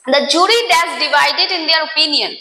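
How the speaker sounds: very slow, careful read-out; slow reading of question. Shown as a demonstration. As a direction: read the question slowly to students. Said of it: "এখানে বলছে".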